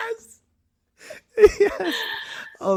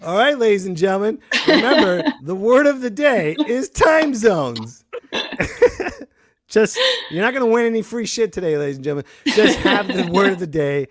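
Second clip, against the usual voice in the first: announcer voice. Acted. Announcer word of the day.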